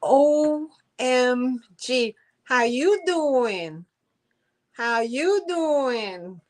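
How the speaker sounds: drawn-out, thrilled hello; excited greeting. Real, not acted. Seller greets her friend Dee on the live stream, slow and thrilled. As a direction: stretch it out, delighted to see her.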